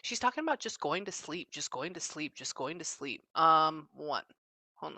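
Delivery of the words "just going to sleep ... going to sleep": fading to a hush. Real, not acted. Repeating, fading away.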